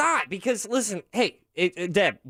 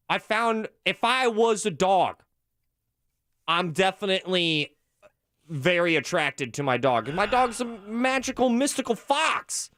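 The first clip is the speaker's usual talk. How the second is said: defiant insistence; 3 semitones higher than usual. Real, not acted. Defending the weird dog remark to friends, defiant and higher. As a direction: dig in and defend the claim. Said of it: "I'm here to die on this hill today".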